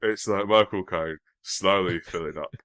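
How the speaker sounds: slow Cockney impression, filling with custard; hammed-up clogged Cockney actor voice; Michael Caine. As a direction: drawl slowly as if the throat is filling up. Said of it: "like if you took Michael".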